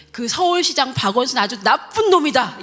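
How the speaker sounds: loud, emphatic mock preacher; retold denunciation. Retelling the pastor's attack on the mayor, loud denunciation. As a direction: denounce him forcefully, as a retold quote.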